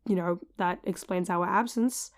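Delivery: lost voice, hoarse and rough. Real, not acted. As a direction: speak with a worn-out voice. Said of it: "partially lost my voice".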